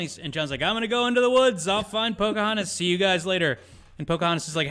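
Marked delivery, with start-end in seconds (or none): 0.6-3.6 high, sing-out mock hero; hammed-up John Smith. John Smith telling the others he's off, hammed-up and high. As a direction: announce it brightly as a mock cartoon hero.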